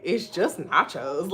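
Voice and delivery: slow, drawn-out imitation of him; retold bafflement. Imitating companion during her panic attack, slow bafflement. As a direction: spell it out slowly, as if baffled.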